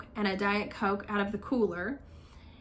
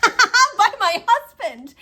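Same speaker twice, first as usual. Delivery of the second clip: very high, loud and drawn out through laughter; laughing punchline; 11 semitones higher, 11 dB louder, much slower than usual. Retold or imitated. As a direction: squeal it slowly through the laugh. Punchline of retold question, laughing.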